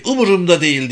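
mildly acted angry snap; snapped retort. A narrator's reading. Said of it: "diye çıkıştı".

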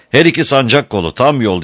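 high-pitched, hurried command; urgent shout. A narrator's reading. Graf Otto orders Eva on the levers, shouting urgently. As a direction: call out the order in alarm. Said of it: "diye bağırdı".

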